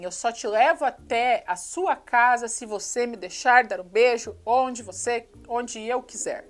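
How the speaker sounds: slow, hammed-up seductive line; mock seductive. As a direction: drag it out like a cheesy movie heartthrob.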